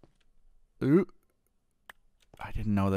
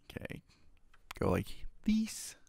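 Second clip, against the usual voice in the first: whispering; 12 semitones higher, 10 dB quieter than usual. Real, not acted. Whispered aside.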